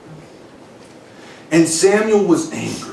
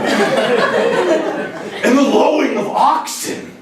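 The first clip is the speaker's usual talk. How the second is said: mock high voice; 10 semitones higher, much slower than usual. Mocking the reading, laughing.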